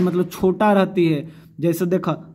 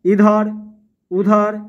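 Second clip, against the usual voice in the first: said loud; 3 semitones higher, 4 dB louder, slower than usual. Shown as a demonstration. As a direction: belt out इधर, उधर for the class. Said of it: "हमें जोर बोला". (ज़ोर से इधर, उधर बोलना)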